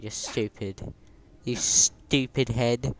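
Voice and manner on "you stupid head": playful shout. Real, not acted. Yelling playful insult at friend.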